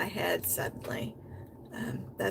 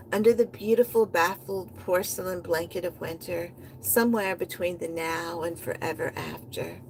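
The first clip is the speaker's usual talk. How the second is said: rhythmic performance reading with a driving refrain; spoken-word poem. Acted. Poet performing her own piece for listeners, rhythmic spoken word. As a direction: chant the refrain like a beat, lines rolling into each other.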